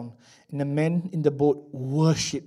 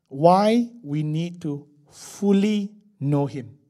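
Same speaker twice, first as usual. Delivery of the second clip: slow, deliberate, weight on "fully"; spaced-out phrase leaning on "fully"; stress on fully; 4 dB louder, much slower than usual. Shown as a demonstration. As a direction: set "fully" apart with emphasis. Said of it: "the emphasis on fully".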